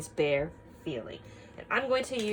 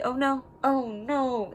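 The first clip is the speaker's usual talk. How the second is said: mock worried; 7 semitones higher, 4 dB louder, slower than usual. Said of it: "worried face or scared face".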